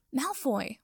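startled, sputtered "Malfoy!" with a falling end; sputtering. Acted. Potter startled by breath on his neck, sputtering. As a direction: blurt "Malfoy!" as if caught off guard. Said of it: "Potter sputtered".

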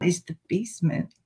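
spooky whisper. Acted. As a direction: hush it like a secret. Spooky reveal of basement.

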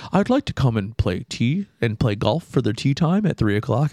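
lightly imitated white-guy phone voice. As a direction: put on a polite white caller. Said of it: "with a very, very white voice".

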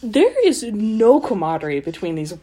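steady read-aloud of a novel passage; story narration. A narrator's reading. Co-host reads the book passage aloud, in measured narration. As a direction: read the chapter evenly to the listeners.

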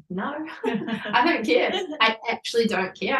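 high, giggly no; laughing refusal. Retold or imitated. To everyone asking the sex, laughing refusal. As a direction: laugh it off happily.

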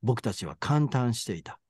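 measured literary read-aloud; story narration. A narrator's reading. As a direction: read the passage out evenly, like a narrator. Reads a passage from the novel. (小説を朗読する落ち着いた語り口)

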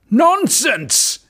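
high, loud outraged king; a king bursting out in protest; exclaiming king. Acted. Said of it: "exclaimed the king".

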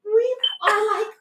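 high, teary, slow. Retold or imitated. Quoting herself moved by mom's praise, teary and high. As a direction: choke up on it. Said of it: "I was just like".

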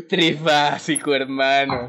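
slow, drawn-out stoner dude; stoned turtle. Pretend. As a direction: stretch each word out, stoned surfer. Stoned sea turtle speaking.

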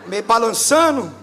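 ordinary delivery

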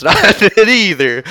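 laughing through line. Acted. Trainer answer, breaks laughing.

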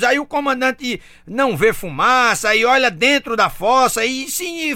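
usual speaking voice

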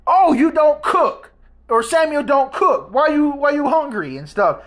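lightly put-on scornful aunt voice; mimicking the aunt. Retelling the aunt's offhand comment.

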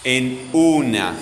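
"una" slowly stretched on the U; stress on U. Shown as a demonstration. Teacher helping pupils hear the strong syllable, stress on the U of "una". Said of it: "la sílaba que suena más fuerte".

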